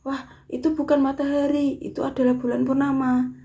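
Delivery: loud, high-pitched surprised exclamation; exclamatory. Shown as a demonstration. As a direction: cry it out in amazement, like spotting the moon. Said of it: "intonasinya suaranya agak naik dan diakhiri tanda seru".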